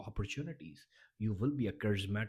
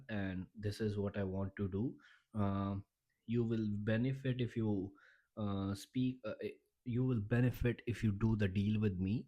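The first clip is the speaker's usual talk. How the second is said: unconfident speaker. Shown as a demonstration. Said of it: "He's not confident".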